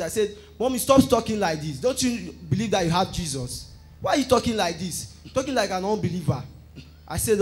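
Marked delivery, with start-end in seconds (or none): 0.6-6.4 retold shout. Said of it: "and I shouted".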